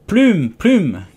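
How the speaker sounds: loud high shout, falling off; sheep shouting again. Acted. Sheep yelling at Alice rowing, loud high shout. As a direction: yell it twice across the boat. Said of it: "cria de nouveau la brebis".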